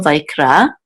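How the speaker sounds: vayikra with the stress on ra; stress on the last syllable. Shown as a demonstration. Teacher marking the accent mark, stressed at the end. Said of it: "which is on the last syllable".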